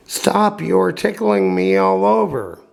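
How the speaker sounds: high giggling little voice; laughing little voice. A narrator's reading. Tickled log laughing at the carpenter, high. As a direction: squeal it out while being tickled.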